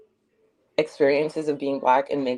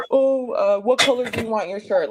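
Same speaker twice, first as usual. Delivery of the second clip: high, mocking voice, pitched up; mocking imitation; 6 semitones higher, 3 dB louder than usual. Imitating Rob J's joke in a high mocking voice. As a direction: mimic the joker teasing, higher.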